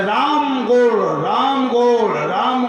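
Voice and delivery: drawn-out call at someone's door. Acted. Visitor at the door hailing a man by the wrong name, calling out.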